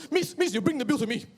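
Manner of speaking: demanding auntie. Retold or imitated. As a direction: wave the waitress over and demand the bill.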